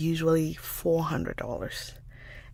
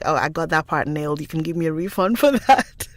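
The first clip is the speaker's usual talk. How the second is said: mock boast; 5 dB louder, faster than usual. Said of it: "I want to be like".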